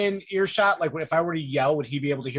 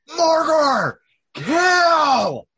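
very high, loud shout with "kill" stretched out; 11 semitones higher, 5 dB louder than usual. Ordering a companion to attack while diving under a tent: yelling. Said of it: "I'm just gonna yell".

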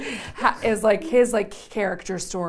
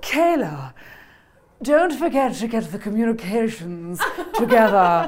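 raised, stagey, put-on British accent; 3 semitones higher, 5 dB louder than usual. Speaker mimics how the actor playing Carlton Wells does Carl's British accent. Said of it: "his british accent will be like this".

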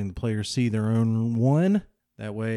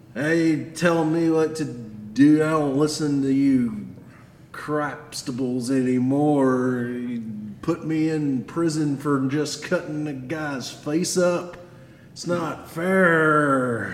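fake angry, drunken voice; 4 semitones higher than usual. Playing a drunk holding a rusty knife in your face: Tim's angry drunk voice. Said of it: "The guy he's talking to is actually someone, the angry drunk".

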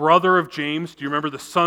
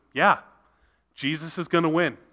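acted, very confident, certain and unwavering tone; 3 dB quieter than usual. Retelling a janitor's answer to a seminary student, imitating a confident tone. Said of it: "very confidently says".

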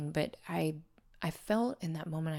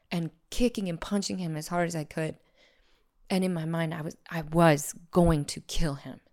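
ordinary talk

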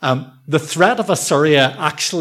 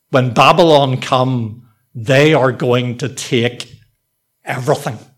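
mock dark, foreboding, very ominous voice; 3 dB louder than usual. Retelling what a man says to Hezekiah, in an ominous tone. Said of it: "he says very ominously".

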